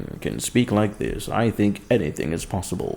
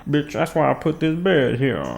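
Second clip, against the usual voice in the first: scolding the cat; 5 semitones higher than usual. Real, not acted. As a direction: yell it at the cat again. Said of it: "That's why I put this bed here for you".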